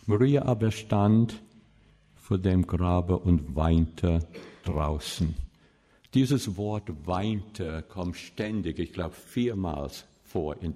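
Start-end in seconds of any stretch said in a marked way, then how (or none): 0.0-5.3 slow, solemn reading of the Bible verse; measured scripture reading. Acted. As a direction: read the verse slowly and with weight. Reads the Bible text aloud.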